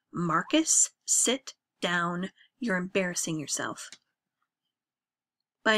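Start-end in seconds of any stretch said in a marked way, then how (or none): 0.1-3.9 forceful command. Acted. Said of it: "in a voice more forceful than Dad's".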